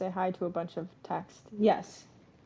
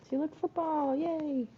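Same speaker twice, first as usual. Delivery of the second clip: high cooing pet voice; sing-song baby talk to a pet; baby talk to cat; 8 semitones higher, slower than usual. Acted. Cooing to cat about football.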